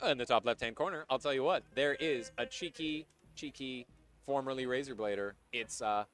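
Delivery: measured announcer intro with teasing pauses; player introduction announcer. Pretend. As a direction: present the player, holding back the name.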